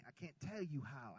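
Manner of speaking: ordinary talk, nothing marked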